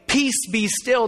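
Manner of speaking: deliberate, drawn-out order; measured word of authority; slow firm command. Retold or imitated. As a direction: command the waters firmly and slowly. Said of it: "in a different kind of way".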